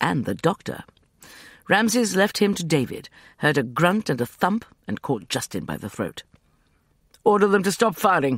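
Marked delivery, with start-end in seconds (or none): 7.2-8.4 panting, out of breath, much higher. Gripping a man by the throat amid gunfire, he gives an order, panting. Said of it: "he panted".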